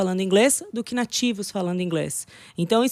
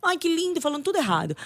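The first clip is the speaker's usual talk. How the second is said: mock cooing; 7 semitones higher, 4 dB quieter than usual. Mocking Brazilians cooing at foreigners.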